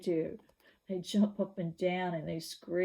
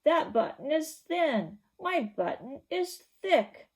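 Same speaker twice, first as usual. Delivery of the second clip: higher, louder, slow shouted denial; 8 semitones higher, 6 dB louder than usual. Acted. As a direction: yell it out, fed up. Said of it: "shouted Toad".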